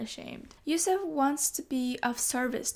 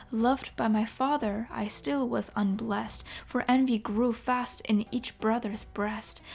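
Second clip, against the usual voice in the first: storyteller reciting rhymed verse; poem reading. Acted. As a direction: read it like an old epic poem. Reads verse poem aloud.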